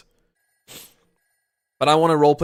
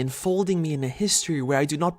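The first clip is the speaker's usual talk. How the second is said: higher, louder voice of a weary trapped ghost; a long-waiting ghost begging for release; pleading ghost; 4 semitones higher, 7 dB louder than usual. Acted. Trapped ghost begging the Sutradhar to end its waiting, higher and louder.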